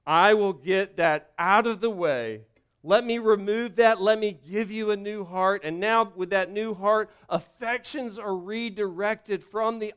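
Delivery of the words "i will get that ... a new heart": God speaking kindly, building louder; voicing God. Pastor voicing God promising a new heart. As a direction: rise into a firm promise. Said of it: "And God says".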